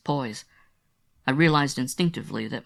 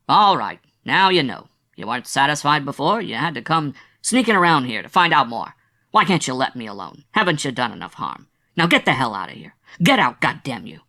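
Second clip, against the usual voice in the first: loud, raw angry yelling at her; wounded actor shouting at his visitor to get out; furious shouting; 7 dB louder than usual. A narrator's reading. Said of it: "He stopped shouting".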